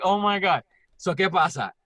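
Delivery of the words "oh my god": loud, higher mock fangirl gush; playfully imitated fangirl excitement; little fangirl. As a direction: gush like a starstruck fan. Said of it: "like a little fucking fangirl".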